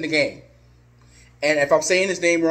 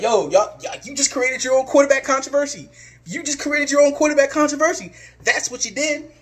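mocking rival fans; 6 semitones higher than usual. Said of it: "they're like".

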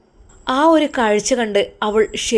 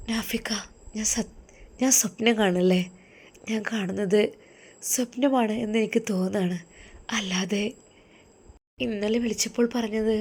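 softer, hushed, wondering voice; hushed disbelief; 5 dB quieter than usual. Acted. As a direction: murmur as if still in a dream. Wife stunned by husband's return.

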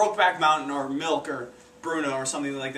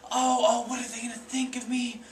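panicked worry; 5 semitones higher than usual. Retold or imitated. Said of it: "Mid thought".

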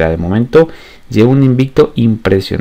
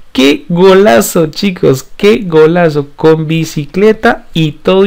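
excited; 5 semitones higher, slower than usual. Real, not acted. Savoring the goal.

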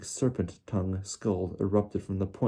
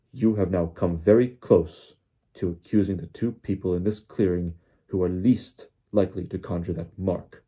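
louder, clipped bark; 5 dB louder than usual. Acted. Crouch rebuking Diggory, a mild bark. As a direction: snap it out as a rebuke. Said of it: "barked Mister Crouch".

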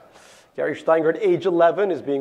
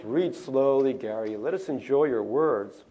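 gentle teacher; slower than usual. Retold or imitated. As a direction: coax him to slow down, kindly. Teacher gently slows him down.

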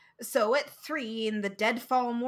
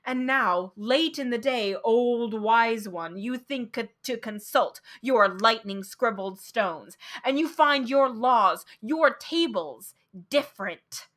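crying out; 4 dB louder than usual. Acted. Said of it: "I cried".

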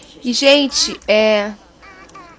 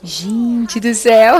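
amazed drawn-out exclaim; 2 semitones higher, 7 dB louder, much slower than usual. Real, not acted. Amazed at game scene.

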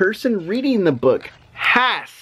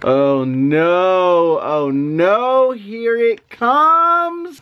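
mock dread; much slower than usual. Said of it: "make silly sounds like".

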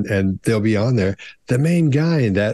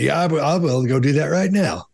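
imitating a cocksure volunteer, pitched higher; higher-pitched overconfident boast; 4 semitones higher than usual. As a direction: promise it with mock can-do certainty. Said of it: "the person who's overconfident".

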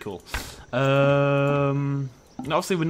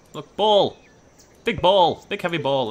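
loud hype for a pet toy; excited coaxing; 4 semitones higher, 7 dB louder, slower than usual. Pretend. Player offering animals a ball, excited coaxing. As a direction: sell it eagerly to an animal.

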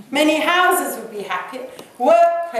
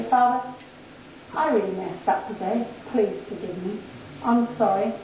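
soft, lowered voice of contrition; humble confession; 3 semitones lower, 4 dB quieter than usual. Acted. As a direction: pray it quietly and sincerely. Modelling a prayer of confession.

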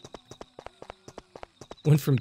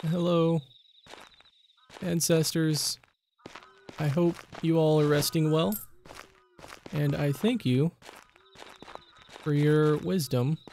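soft, measured graveside greeting; respectful address; 5 dB quieter than usual. Pretend. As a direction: greet the ancestors gently, with pauses.

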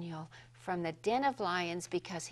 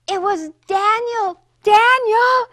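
high, loud thrilled exclaim; storyteller sharing the happy news; joyful gasp; 10 semitones higher, 14 dB louder than usual. Acted. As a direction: burst out with delight. Joyful discovery after a gasp.

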